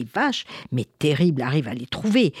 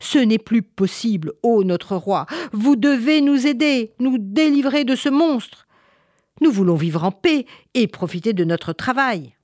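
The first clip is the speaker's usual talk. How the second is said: higher, urgent villagers' plea; pleading complaint; 6 semitones higher, 4 dB louder than usual. Acted. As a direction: beg the king for deliverance. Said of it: "ils décidèrent de se plaindre au roi".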